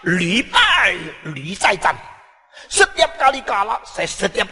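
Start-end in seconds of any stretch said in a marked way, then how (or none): 0.1-1.9 shouted Chinese phrase. Retold or imitated. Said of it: "Dia balik".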